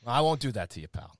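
light put-on Irish brogue; Irish accent. Host correcting his co-host about Dublin, Irish accent. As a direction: lightly keep up the Irish lilt. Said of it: "I have a few accents".

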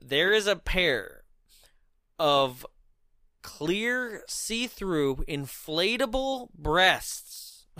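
slow, spaced-out presenter's reveal; mock-solemn announcement. Host unveils the absurd weapon to listeners, mock-solemn announcement. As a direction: announce it slowly with long pauses.

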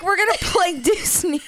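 high cartoon duck voice; Donald Duck voice. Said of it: "what Donald Duck sounds like".

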